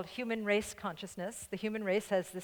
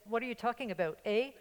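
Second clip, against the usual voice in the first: lightly imitated Canadian in-law, tagging on a teasing "eh"; a playful hint of Canadian, ending on "eh"; Canadian accent. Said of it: "Actually, they said".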